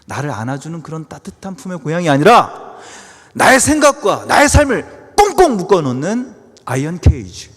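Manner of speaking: swelling into loud, high sermon emphasis; forceful preaching. Acted. Preacher warning of hometown's iron cage, loud emphatic delivery. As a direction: build to full force for the congregation.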